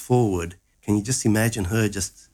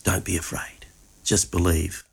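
tender quote; 4 semitones lower than usual. Acted. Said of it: "beautiful things that Jesus says that I love".

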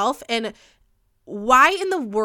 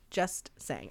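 even lower, much softer repeat; quieter echo; 9 semitones lower, 12 dB quieter than usual. Real, not acted. Host repeating her sign-off, fading quiet. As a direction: let it fade out. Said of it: "repeated softer".

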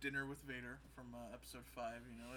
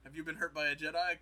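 ad read; 3 semitones higher, 10 dB louder than usual. Retold or imitated. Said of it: "a commercial for Bob Goldstein".

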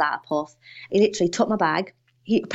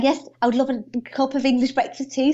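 delighted acceptance; 6 semitones higher than usual. Retold or imitated. Eager reply to waiter's offer.

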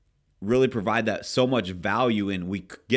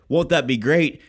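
retold question; 5 semitones higher, 6 dB louder than usual. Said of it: "I said".

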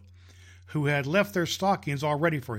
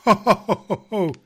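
jolly ho ho ho; 5 semitones higher, 9 dB louder than usual. Acted. Santa laughs at his joke.

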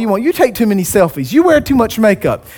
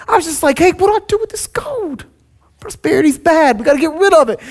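Aaron excuse voice; 3 semitones higher than usual. Retold or imitated. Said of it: "Aaron was like".

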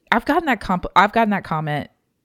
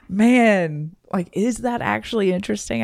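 amused disbelief; 6 semitones higher, 5 dB louder than usual. Retold or imitated. Voices own amused doubt about rambling.

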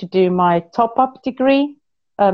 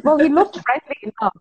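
laughing; 6 semitones higher than usual. Real, not acted. Retelling her answer with a laugh.

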